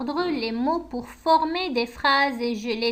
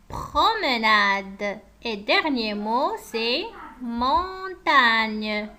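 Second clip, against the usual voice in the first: slow dictation; much slower than usual. Acted. Teacher dictating words slowly.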